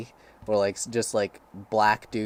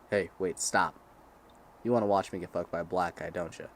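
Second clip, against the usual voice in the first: imitated wife; 5 semitones lower, 5 dB quieter than usual. Voices the wife in retold scene.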